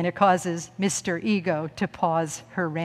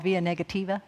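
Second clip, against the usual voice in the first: "via negativa" in a Southern accent; 6 dB quieter than usual. Real, not acted. Speaker learned Latin in the South, Southern accent. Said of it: "say that with a Southern accent".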